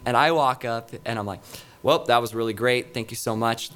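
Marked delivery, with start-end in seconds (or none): 1.8-3.7 flat, dead delivery; super monotone. Retold or imitated. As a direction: say it with no feeling at all. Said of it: "Like, super monotone, super dead".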